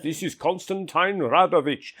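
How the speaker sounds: put-on slow European-accented introduction; Konstantin Radovich. Spirit caller introducing himself to the researcher, slow European accent. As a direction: announce the name slowly in a European accent. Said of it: "a European accent".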